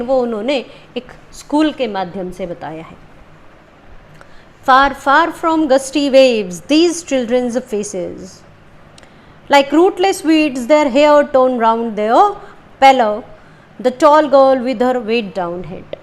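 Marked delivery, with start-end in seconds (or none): 4.7-16.0 slow, measured poetry recital; poem reading. Acted. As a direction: read each line slowly, letting images land. Reads the poem aloud.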